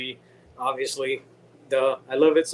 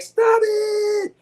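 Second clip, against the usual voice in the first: sudden high shout of stop it; 3 dB louder than usual. Retold or imitated. Mocking a movie scene, high yelled stop it. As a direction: yell it out as a mock outburst. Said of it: "He's like".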